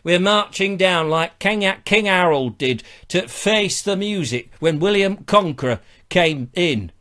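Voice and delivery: emphatic mock northern accent; rally the troops in a hammed-up northern voice; indignant Northerners. Imagined Northerners shaking fists, indignant northern accent. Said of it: "all Northerners shaking their fists going".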